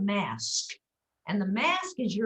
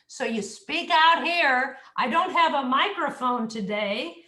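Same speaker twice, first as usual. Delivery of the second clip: louder and slow, projected through the mask; 3 semitones higher, 4 dB louder than usual. Shown as a demonstration. Coach demonstrates projecting from the mask, slowly. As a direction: speak out here, slowly. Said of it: "deep, buzzy sound".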